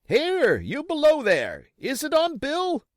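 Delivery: very high, loud call; crying out. Acted. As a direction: shout down to the man below. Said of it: "cried the blind man again".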